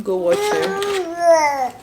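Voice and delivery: very slow, high go watch it; playful slow urging; slow stretched command. Real, not acted. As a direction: draw it out, teasing. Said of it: "if you've not watched that video".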